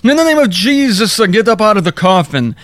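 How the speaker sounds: mock commanding preacher. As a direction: ham up a preacher commanding the dead. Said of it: "and, uh, commanded".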